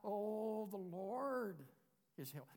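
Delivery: weak, fading mumble; trailing off timidly; tentative. Shown as a demonstration. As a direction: say it half-hearted and unsure.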